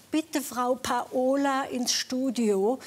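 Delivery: slow, lightly imitated studio page; loudspeaker announcement. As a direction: call "Paola" to the studio, stressed pa-O-la. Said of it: "über den Lautsprecher". (langsame Lautsprecherdurchsage, leicht nachgeahmt)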